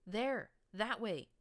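high, loud desperate pleading cry; plaintive whine. A narrator's reading. Captive pony pleading with his captors, plaintive loud whine. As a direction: beg the captors to go that way. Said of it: "came the plaintive whine".

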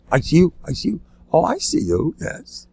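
mocking. Rabbi making light of intensive care, mocking. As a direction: toy with the letters to belittle them. Mocks the word ICU.

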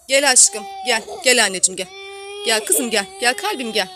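coaxing. Real, not acted. Mother coaxing her crying daughter.

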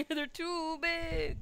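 giggling through the words; laughing. Real, not acted. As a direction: laugh while saying it. Laughing echo.

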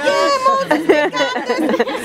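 high, excited opening that eases down; retold cheering. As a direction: imitate cheering a friend on. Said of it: "And we're cheering".

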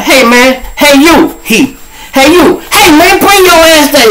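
loud, high yell after a runner; calling out. Retold or imitated. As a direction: shout him down from across the street. Cops calling out to fleeing man.

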